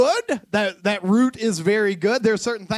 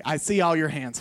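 ordinary delivery

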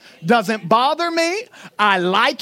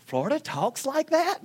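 mock surprise; 7 dB quieter than usual. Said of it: "people go".

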